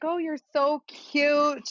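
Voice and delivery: high, slow New York lady impression; New York accent. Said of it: "I don't know why I'm making her sound New York".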